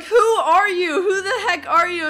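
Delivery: loud, high-pitched retold scream. Girl to stranger in her back seat, retold screaming. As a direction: imitate a girl screaming in alarm. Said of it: "screaming at me".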